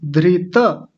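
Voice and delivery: धृत ending with a full त; full-t version. Shown as a demonstration. Teacher giving the correct full form. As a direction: say धृत with the final त fully voiced. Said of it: "त पूरा है".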